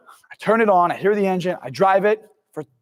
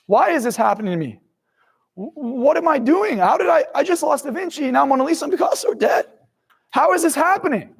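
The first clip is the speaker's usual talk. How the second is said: self-pitying victim; 4 semitones higher than usual. Retold or imitated. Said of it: "this pattern of being a victim".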